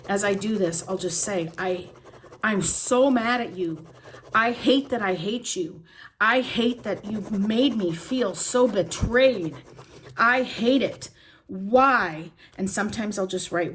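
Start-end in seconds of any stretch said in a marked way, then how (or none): 1.6-12.3 loud, hurt venting at him; shouting the rage out alone; angry yelling. Shown as a demonstration. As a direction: yell out the betrayal. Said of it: "I just yell and I just say".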